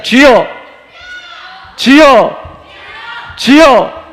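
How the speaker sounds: high, loud repeated prayer cry; rousing shout. Shown as a demonstration. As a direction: shout each one to shake the church. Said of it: "교회가 떠나가도록".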